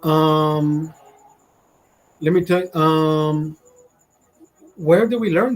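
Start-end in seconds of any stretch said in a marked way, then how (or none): 0.1-0.9 long droning "um" on one note; imitated monotone filler; mocking filler um. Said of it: "pick up the". 2.7-3.6 long droning "um" on one note; imitated monotone filler; mocking filler um. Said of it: "pick up the".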